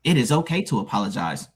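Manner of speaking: firm emphasis on "it is okay"; strong emphasis. Real, not acted. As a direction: land "okay" with conviction, then let "apologize" fall. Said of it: "you put some strong emphasis on, uh, it's okay".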